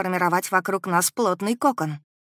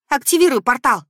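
high, urgent shouted command; barked order; 7 semitones higher, 8 dB louder than usual. A narrator's reading. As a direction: bark it at him, desperate. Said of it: "рявкнула я". (рявкнуть, требуя немедленно)

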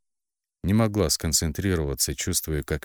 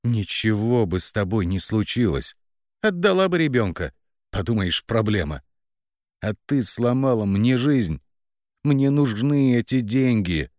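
higher, angry, louder spite; angrily hissing; 6 semitones higher, 4 dB louder than usual. A narrator's reading. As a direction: sister hurls angry blame while gripping her hair. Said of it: "гневно цедя".

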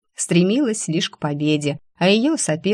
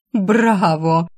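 a touch louder ironic exclamation; mock bravo; 3 semitones higher, 4 dB louder than usual. Alisa mocking the heroine's act, ironic bravo. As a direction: applaud the fake act. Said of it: "воскликнула Алиса".

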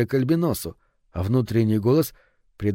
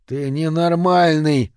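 drawn-out, higher-pitched outraged cry; outraged yell; 4 semitones higher, 4 dB louder, slower than usual. A narrator's reading. Barman to the man who smashed his jukebox, outraged yell. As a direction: cry out in slow, stretched disbelief. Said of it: "завопил он".

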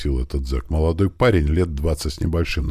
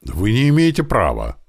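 high, panicked protest, slightly louder; испуганный визг; 7 semitones higher, 4 dB louder than usual. A narrator's reading. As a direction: squeal it out in mild panic. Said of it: "заверещал этот молодой". (испуганно заверещать)

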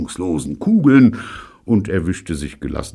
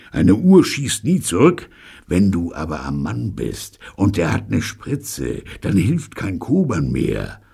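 angry; 3 semitones higher than usual. Acted. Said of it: "schnaubte zwei Kanonen Steve böse".

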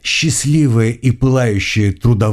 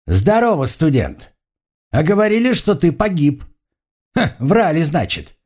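high-pitched, lively greeting in character; jovial supplier; 6 semitones higher than usual. A narrator's reading. Supplier greets the student reported dead, jovially surprised. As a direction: hail them in a raised, surprised character voice.

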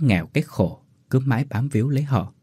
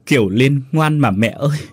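high, louder, tearful pleading; sobbing plea; 5 semitones higher, 3 dB louder than usual. A narrator's reading. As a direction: beg the dead parents through tears. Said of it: "khóc mếu máo". (khóc mếu máo van xin)

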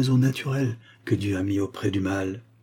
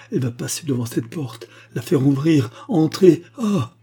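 rising urgency; 4 semitones higher than usual. Acted. Georges rising in panic.

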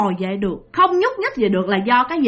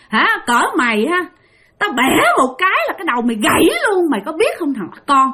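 put-on lightly raised, threatening old ghost; menacing ghost; 4 semitones higher than usual. (giọng bà ma đe dọa, hơi cao)

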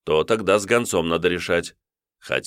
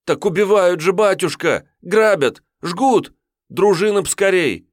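высокий, громче, на грани плача; умолять спасти деревню; отчаянная мольба отрока; 13 semitones higher, 6 dB louder than usual. Acted. Отрок кричит о грабеже. (отрок в панике молит воеводу)

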